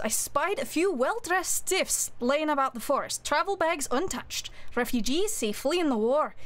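hammed-up amateur Scottish accent; butchered Scottish accent. Streamer reading a game letter aloud to chat, in a mock Scottish accent. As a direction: read the letter in a clumsy, half-hearted Scottish accent. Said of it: "so I'm gonna butcher a Scottish accent now".

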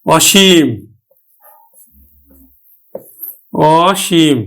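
অসীম with open "aw", as "aw-sheem"; open initial vowel. Shown as a demonstration. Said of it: "বিবৃত উচ্চারণ". (অসীম-এর অ বিবৃত উচ্চারণ)

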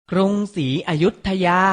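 กรุงศรีอยุธยา said carefully as krung-si-a-yut-tha-ya; careful teaching read of กรุงศรีอยุธยา; pronunciation model. Shown as a demonstration. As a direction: model กรุงศรีอยุธยา for learners, syllable by syllable. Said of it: "ออกเสียงพร้อมๆพี่ไทยให้ถูกต้อง".

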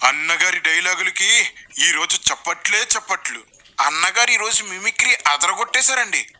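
lightly mocked admiring follower; a hint of overexcited fan praise; gushing fan. Follower praising the preacher's mimicry, mock gushing. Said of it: "మీ వాళ్ళు ఏం చెప్తారు?".

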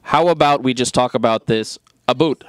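jokey mock Canadian "a boot"; lightly imitating a polite Canadian; Canadian accent. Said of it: "the Canadians would just be like".

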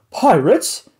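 loud, high outraged disbelief; indignant rich lady; shocked and offended. A narrator's reading. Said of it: "she said in outrage".

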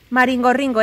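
maringorringo said the Basque way, rolled r and clear final o; Basque word. Shown as a demonstration. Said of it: "En euskera decimos maringorringo". (maringorringo pronunciado en euskera)

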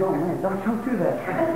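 very soft, feeble plea; sick patient begging doctor, very soft; weak pleading. Retold or imitated. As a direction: beg weakly to stop.

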